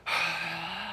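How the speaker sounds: breath out. Shown as a demonstration. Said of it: "we breathe out".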